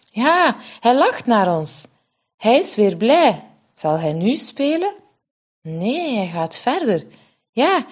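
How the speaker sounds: put-on young sisters talking eagerly at play; a hint of small children's voices; little twin girls chatting.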